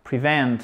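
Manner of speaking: PREVENT with short i, stressed on VENT; accent tonique. Shown as a demonstration. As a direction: keep PRE short, lean on VENT in PREVENT. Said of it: "mais l'accent tonique est bien là". («prevent», i court, accent sur «vent»)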